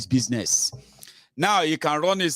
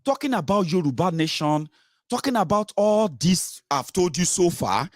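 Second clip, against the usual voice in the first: mock critic voice; 4 semitones higher than usual. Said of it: "He said".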